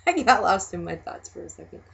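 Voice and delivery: real laugh breaking into the words; laughing lightly at own lapse; amused laughing. Real, not acted. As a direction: chuckle at yourself while talking. Amused at own lost thought.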